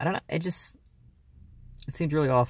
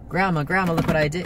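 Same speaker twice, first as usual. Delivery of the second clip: put-on high, loud little girl calling Grandma; excited child call; 7 semitones higher, 5 dB louder than usual. Niece calling her grandma, high and excited.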